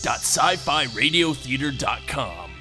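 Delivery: ordinary talk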